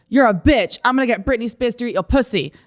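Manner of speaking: lightly hammed-up aggression; aggressive insults, retold. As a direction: imitate an angry man hurling insults. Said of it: "aggressive and angry".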